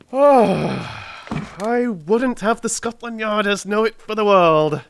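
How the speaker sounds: high, laughing protest; laughing cry. Acted. Holmes to Watson, laughing at his own failure. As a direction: laugh through the words, amused and chagrined. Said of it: "he cried".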